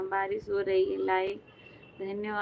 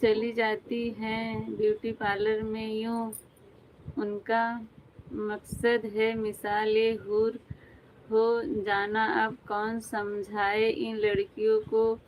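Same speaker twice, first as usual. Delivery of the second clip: shayari recital. Acted. Reads a shayari comment aloud.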